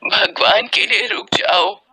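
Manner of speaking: desperate mother's drawn-out plea; acted, anguished appeal; pleading for help. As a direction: beg passers-by, breathy and slow at first. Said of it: "मदद की गुहार करती".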